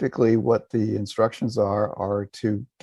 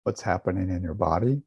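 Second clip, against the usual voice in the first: calm, unhurried meditation guidance with long silences; guided meditation. Real, not acted. Teacher guiding listeners to relax and feel a smile, calm meditation voice. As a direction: lead them gently, leaving space after each instruction.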